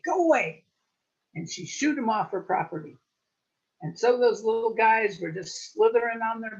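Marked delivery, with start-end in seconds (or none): 0.0-0.6 second go away, much higher; shriller yell. Acted. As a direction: go away even higher and loud. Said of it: "She screamed at 'em".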